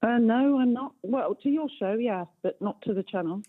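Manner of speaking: caller heard down a phone line; radio show caller. Real, not acted. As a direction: narrow telephone sound, live on air. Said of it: "thank you very much for calling into the show".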